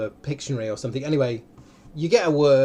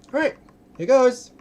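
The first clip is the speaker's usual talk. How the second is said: excited start; 10 semitones higher, 7 dB louder, slower than usual. Real, not acted. Starting the game.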